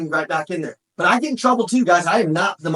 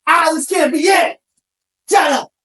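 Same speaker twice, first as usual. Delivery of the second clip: mock frustration; 9 semitones higher, 5 dB louder than usual. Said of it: "I was fighting to get out of it".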